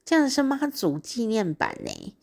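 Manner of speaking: high-pitched delighted surprise. Retold or imitated. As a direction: relive the moment of discovering a special edition. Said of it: "我拿到的时候觉得，". (惊喜地提高音调感叹)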